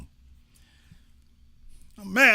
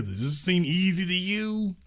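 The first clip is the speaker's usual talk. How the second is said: higher, exasperated plea to the audience; exasperated question; 3 semitones higher than usual. Real, not acted. Host asks viewers, exasperated. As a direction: ask as if it is obviously hard. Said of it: "You hear stuff like that right there".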